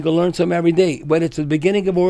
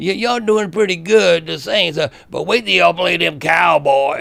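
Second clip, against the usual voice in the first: put-on Texas twang accent. Retelling how his ex-wife's uncle teased him about the saints, texas twang accent. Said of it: "Texas twang".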